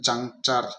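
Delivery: "जंक चर" as two separate syllables. Shown as a demonstration. Teacher joining the two pieces of a word, "जंक चर" syllable by syllable. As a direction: say "जंक", then "चर", each distinct. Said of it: "हम इसको आराम से पढ़ सकते हैं".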